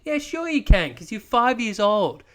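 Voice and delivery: hammed-up mum teasing a little baby; mum's voice. Mocking a friend by playing mum scolding her child in high falsetto. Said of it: "as mum might serve up to you".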